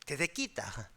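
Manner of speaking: Gyeongsang dialect. Shown as a demonstration. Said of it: "경상도 말로".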